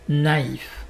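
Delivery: naïf with the i fully sounded; clear separate i. Shown as a demonstration. Teacher insists "prononcer le I", separate i in naïf. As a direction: give naïf two syllables, na-if. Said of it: "prononcer le I".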